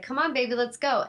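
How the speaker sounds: light come-along pet voice; coaxing a dog. Retold or imitated. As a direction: coax the dog along sweetly.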